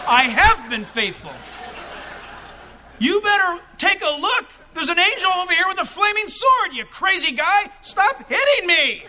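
starts steady, builds to a high, loud laughing shout; donkey protesting. Retold or imitated. Donkey shouts back at Balaam, building to a loud high yell.

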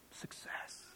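an unvoiced, hushed "Success"; whispered word. Real, not acted. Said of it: "whispered key word".

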